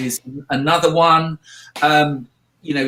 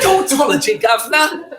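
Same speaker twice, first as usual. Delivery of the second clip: high, loud, laughing mock British spy voice; Austin Powers; 10 semitones higher, 4 dB louder than usual. Cohost teasing his own accent, mock Austin Powers voice. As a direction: ham up "Tautology" like a swinging sixties spy. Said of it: "a bit like, uh, Austin Powers".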